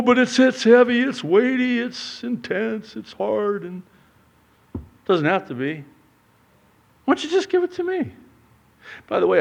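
high, loud then softening; mock-patient God; God gently chiding. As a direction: reason with him. God's reply.

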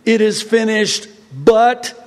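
mock quote with a dangling "but"; mocking wrong version. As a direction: tack on "but" as if the job were unfinished.

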